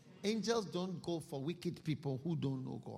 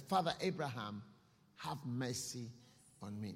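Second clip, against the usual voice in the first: mild crying plea; 4 semitones lower than usual. Acted. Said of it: "he also cried and said".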